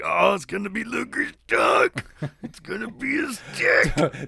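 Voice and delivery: high, strained mock dread; mock panic. Podcaster voicing a wrestler dreading what the video shows, mock high panic. Acting out Macho Man's panic.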